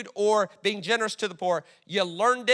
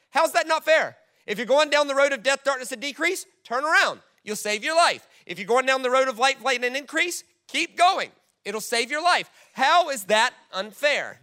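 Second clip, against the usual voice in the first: emphatic preaching; 5 semitones higher, 4 dB louder than usual. Real, not acted. Preacher pressing the point.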